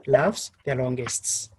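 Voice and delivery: "laughs the longest" slowly stepping down in pitch; falling intonation. Shown as a demonstration. Teacher giving the proverb's completion, falling intonation. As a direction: stretch "laughs the longest" and let it fall to a close. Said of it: "said with a falling intonation".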